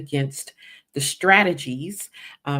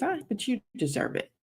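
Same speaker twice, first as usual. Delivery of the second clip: higher and softer, coaxing mock whisper; serpent's whisper; 8 semitones higher, 6 dB quieter than usual. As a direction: purr it like a tempter luring you in. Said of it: "that whisper that just says".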